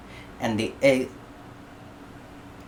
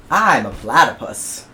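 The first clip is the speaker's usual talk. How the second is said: matter-of-fact platypus; 7 dB louder than usual. Acted.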